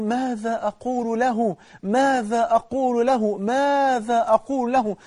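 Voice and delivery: a burning man crying out his question; dying man's plea. Acted. Burning young man asks his friend, slow high lament. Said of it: "وبعدين بيقول".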